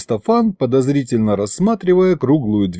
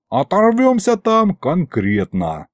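higher, drawn-out relish; delighted demon; 6 semitones higher, slower than usual. A narrator's reading. Demon looks forward to the outing, delighted. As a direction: slowly savour the fun ahead. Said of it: "обрадовался Аристофан".

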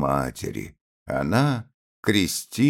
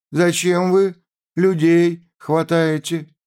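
high, loud cry to stop her son; 12 semitones higher, 6 dB louder than usual. A narrator's reading. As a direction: shout him down, much higher and louder. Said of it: "крикнула мать, порываясь к столу".

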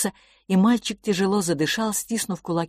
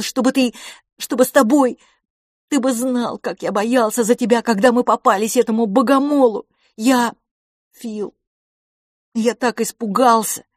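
higher and louder, near tears; desperate pleading boy; 7 semitones higher, 6 dB louder than usual. Acted. Boy begs his silent twin brother, pleading desperately. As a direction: beg him to answer you.

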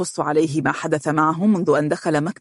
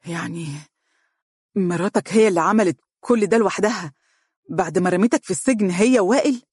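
slightly raised, incredulous question; stunned disbelief; 3 semitones higher than usual. Acted. Father realising the wife's betrayal, mild stunned disbelief. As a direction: voice lifting in shock. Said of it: "وهو يقول بذهول".

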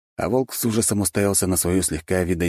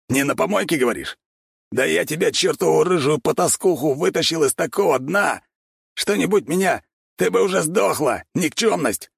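Bigby's mild contempt; 10 semitones higher than usual. A narrator's reading. Bigby insults Katya.

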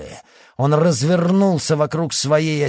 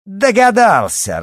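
laughing; 8 semitones higher, 7 dB louder than usual. Acted. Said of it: "расхохоталась она".

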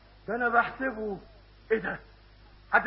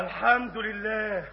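relieved sigh; 2 semitones lower, 4 dB quieter, slower than usual. Acted. Relieved it's only a cat.

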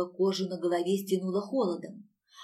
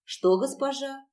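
higher, slow, plaintive question; miserable voice; 6 semitones higher, slower than usual. A narrator's reading. Stranger asking her mistress, miserably. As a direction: ask it slowly in an unhappy voice. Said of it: "несчастным голосом спросила незнакомка".

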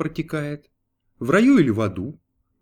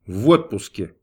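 curt; 5 semitones lower, 5 dB louder than usual. A narrator's reading. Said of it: "коротко ответил Бог".

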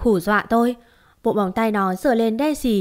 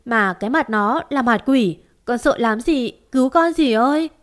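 desperate pleading; 2 semitones higher than usual. Acted. Terrified girl begging aunt.

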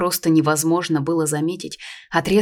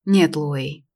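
confident. A narrator's reading. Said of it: "посмотрел ему в глаза уверенно Белькасем".

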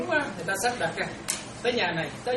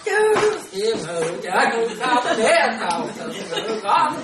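exaggerated swooping pitch, slow and laughing; mocking sing-song reading; 2 semitones higher, 5 dB louder, slower than usual. Shown as a demonstration. Monk mocks students' sing-song prayer reading, laughing and swooping. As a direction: ham up the up-and-down chanting to mock it. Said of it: "ca nó đọc lên giọng xuống giọng".

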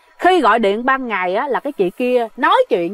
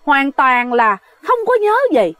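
flustered denial; 4 semitones higher than usual. Retold or imitated. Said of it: "cái chị này hoảng hốt".

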